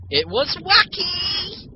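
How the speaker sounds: high, slow sarcastic cheer. Real, not acted. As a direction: gush it sarcastically. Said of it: "That's being sarcastic".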